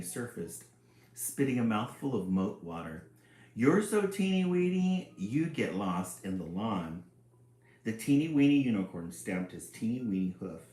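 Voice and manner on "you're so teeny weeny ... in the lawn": taunting sister. Acted. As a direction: laugh at how small he is. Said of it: "sister taunting the unicorn".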